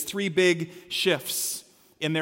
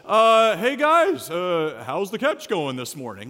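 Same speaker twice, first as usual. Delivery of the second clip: casual tourist; slower than usual. Acted. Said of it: "hands in his pockets like a tourist".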